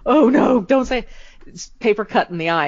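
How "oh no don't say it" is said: pleading cousins. Retold or imitated. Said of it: "my cousins to go".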